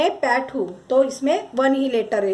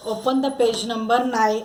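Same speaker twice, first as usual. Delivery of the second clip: very slow instruction; 3 semitones lower, much slower than usual. Shown as a demonstration. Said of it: "teacher giving class instruction".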